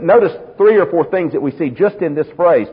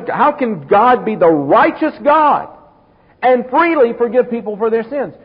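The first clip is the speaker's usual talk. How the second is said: pressing, rising challenge, pitch climbing higher; questioning objector; 4 semitones higher than usual. Retold or imitated. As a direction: voice a doubter pushing harder each line. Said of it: "the question goes".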